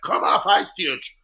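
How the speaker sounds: loud, slow, drawn-out Jamaican yell; high, stretched-out crowd shout; booing heckler. Retold or imitated. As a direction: heckle a comic off in patois. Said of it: "they're booing him".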